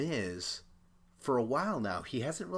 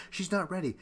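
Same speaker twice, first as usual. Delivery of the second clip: retold interjection; 9 semitones higher, faster than usual. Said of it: "jumping in and saying".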